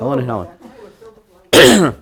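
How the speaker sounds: Ellen and Helen stretched very slow and loud; drawn out slowly. Shown as a demonstration. Names savored slowly.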